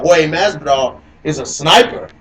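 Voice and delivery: echoey robot voice audio; robot voice from glitchy audio. Real, not acted. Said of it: "I sound like a robot. It's echoing".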